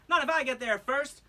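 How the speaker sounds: a cheeky dare; French Toast challenge. Acted. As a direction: throw down the challenge.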